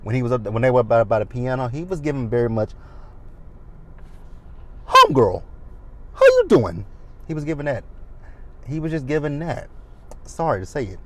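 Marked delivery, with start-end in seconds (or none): 4.9-6.9 Asher. Retold or imitated. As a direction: greet a girlfriend with sassy, exaggerated flair. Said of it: "he gave homegirl vibes".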